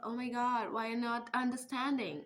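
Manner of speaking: slow, drawn-out mock posh English accent; mock put-on English accent. Mocking the English-speaking kids, slow fake English accent. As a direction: imitate the kids' fake English accent, stretched out. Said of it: "वो उनका accent भी बदल गया था".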